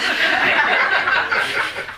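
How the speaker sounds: high breathy burst of laughter; real laugh. Real, not acted. Laughing at the choir's odd tone. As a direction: laugh out loud at the memory. Amused retelling of church story.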